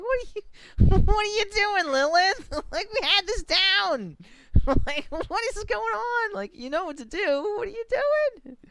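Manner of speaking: high, squealing disbelief; loud, hammed-up high-pitched protest; mock exasperation. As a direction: scold a child in play-acted despair. Acts exasperation at child.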